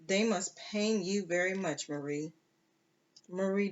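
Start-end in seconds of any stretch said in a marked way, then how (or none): 0.1-2.3 almost gently. Acted. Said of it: "said almost gently".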